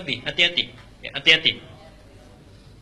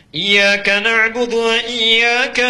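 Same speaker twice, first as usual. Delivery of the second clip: very slow, loud, high chanted verse; showier recitation; 7 semitones higher, 8 dB louder, much slower than usual. Acted. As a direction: show off your voice as imam. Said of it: "biar lebih bagus".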